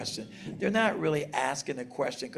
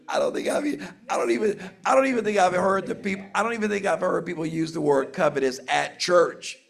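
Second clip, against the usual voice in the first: laughing disbelief; 6 semitones higher, 6 dB louder, faster than usual. Real, not acted. Laughing at the old word.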